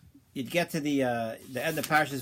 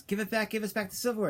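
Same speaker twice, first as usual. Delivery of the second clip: angry demand; 7 semitones higher, faster than usual. Retold or imitated. Innkeepers beating accused thief.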